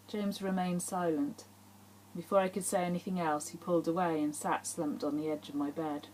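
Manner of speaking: measured, intimate audiobook reading; story narration. A narrator's reading. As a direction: read the chapter aloud with even, falling phrases. Reads her novel aloud.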